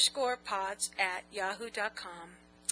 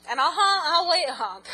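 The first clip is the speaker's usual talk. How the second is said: laughing; 5 semitones higher, 8 dB louder than usual. Real, not acted. Laughing through answer.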